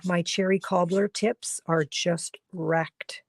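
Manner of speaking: barely any voice left, whispering through it; worn-out whispering voice; losing voice. Real, not acted. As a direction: voice giving out to a whisper. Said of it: "I'm losing my voice".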